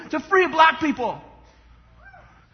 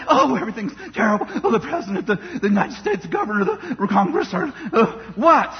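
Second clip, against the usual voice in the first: mock whiny complainer; 5 semitones lower than usual. Preacher mocking people who say everything is terrible, lower and fast with laughs. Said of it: "They're like".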